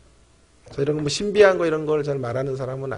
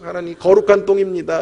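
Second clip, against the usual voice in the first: excited exclamation; 4 semitones higher, 6 dB louder than usual. Retold or imitated. Exclaims over the baby's diaper.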